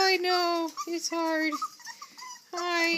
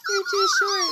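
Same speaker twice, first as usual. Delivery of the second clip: very high, louder squeaky coo; 8 dB louder than usual. Real, not acted. Same words said twice.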